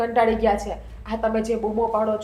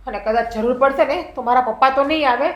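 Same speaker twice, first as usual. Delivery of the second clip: heated retort; 5 dB louder than usual. Acted. Daughter-in-law retorting in the quarrel.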